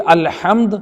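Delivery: الحمد slowly, ح from the throat; slow, careful الحمد with pharyngeal ح; correct throat ح. Shown as a demonstration. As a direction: draw out الحمد with a proper Arabic ح. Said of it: "حق حلق کے ساتھ صحیح تلفظ".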